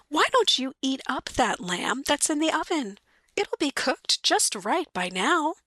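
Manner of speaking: light wife voice, politely asking; lightly voiced wife. Mary offering the lamb.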